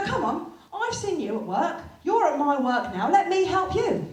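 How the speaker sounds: pushy shop lady. Retold or imitated. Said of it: "She went".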